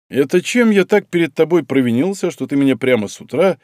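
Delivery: lightly mocking, amused question; with a smirk. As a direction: tease him with a grin. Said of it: "с усмешкой спросил Касаткин".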